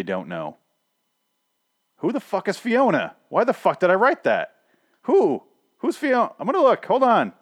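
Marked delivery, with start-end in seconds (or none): 2.0-7.3 high-pitched loud exasperated comedian voice; Seinfeld. Real, not acted. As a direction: whine it out high and loud, utterly baffled. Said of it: "What am I doing my Seinfeld voice?".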